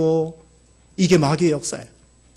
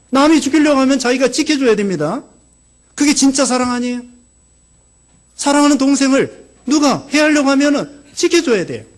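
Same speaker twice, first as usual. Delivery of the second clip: higher, earnest preaching push; fervent exhortation; 6 semitones higher than usual. Real, not acted. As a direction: urge them to protect their brother. (간절히 외치는 설교)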